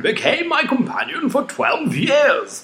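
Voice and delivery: put-on high, slow, half-shouted boy voice; laugh-shout it as a crazy lad. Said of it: "this is my crazy boy voice".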